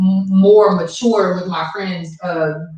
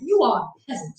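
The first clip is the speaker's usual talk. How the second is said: higher mock British accent; 5 semitones higher, 4 dB quieter than usual. Co-host tries the peasant line, mock British accent. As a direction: play at a British accent, pitched up. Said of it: "No, not go like that".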